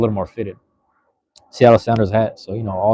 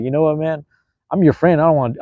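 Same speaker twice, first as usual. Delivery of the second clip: higher and louder, an exasperated plea to a friend; pleading out loud to a friend who won't stop talking; 5 semitones higher, 3 dB louder than usual. Retold or imitated. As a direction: raise it up, telling your friend straight to his face. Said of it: "I didn't say this out loud".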